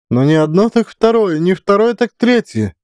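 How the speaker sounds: weary sigh. A narrator's reading. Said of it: "Тяжело вздохнула директриса".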